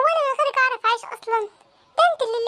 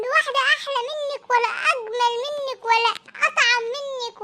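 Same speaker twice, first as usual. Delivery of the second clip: laughing sweet talk; 3 semitones higher than usual. Acted. Husband sweet-talks angry wife.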